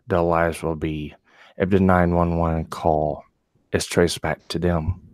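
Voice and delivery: low sexy voice. Pretend. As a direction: read it in a low seductive tone. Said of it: "they want to hear the voice".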